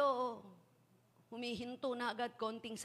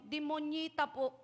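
put-on child; 4 semitones higher, slower than usual. Child answers again.

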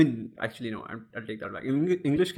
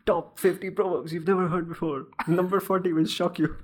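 clickbait video narrator; 6 semitones higher, 3 dB louder than usual. Pretend. Mock clickbait headline.

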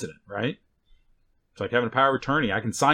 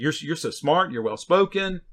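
mock praise, pitched up on well-spoken; sarcastic compliment; 5 semitones higher than usual. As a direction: lay on the fake flattery. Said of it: "it's pushing towards sarcasm".

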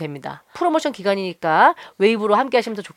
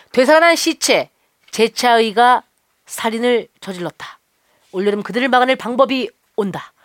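movie trailer voice. Acted. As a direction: announce it like a thriller trailer. Reads movie ad intro.

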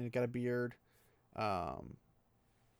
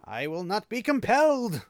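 louder, higher defiant snap; arrogant snap; 8 semitones higher, 7 dB louder than usual. A narrator's reading. Fain defying his captors with an arrogant snap. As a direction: bite it off with contempt. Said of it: "an arrogant snap had replaced the whine".

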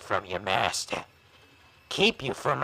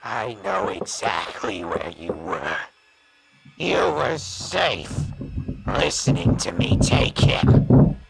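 cold menace; 3 semitones lower than usual. Acted. Villain threatens his traitorous partner, menacing. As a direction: promise him he is next.

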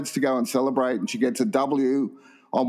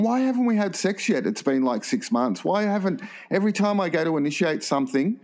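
exasperated complaint; 5 semitones higher than usual. Acted. Girlfriend complains to her boyfriend.

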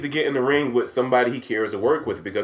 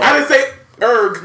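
higher, louder protest; loud indignant denial; 8 semitones higher, 5 dB louder, slower than usual. Real, not acted.

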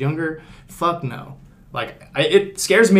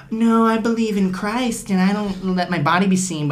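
slow, higher-pitched put-on piety; mock pious girl; 4 semitones higher than usual. Girls who won't own it, mock pious girl. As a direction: play a prim believer, drawing it out. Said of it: "they're like".

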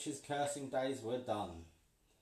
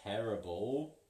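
witch threatening; 4 dB louder than usual. Acted. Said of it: "The witch cackled".

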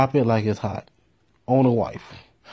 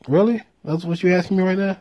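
incredulous; 7 semitones higher, faster than usual. Retold or imitated. Incredulous retort to friend.

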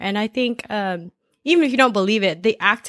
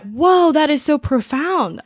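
higher, louder awed whoa; mock amazement; 5 semitones higher, 3 dB louder than usual. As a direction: act blown away by the idea. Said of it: "And I was like".

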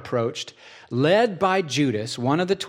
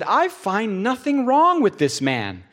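emphatic declaration; 8 semitones higher, 4 dB louder than usual. Acted. Pilate declares Jesus innocent.

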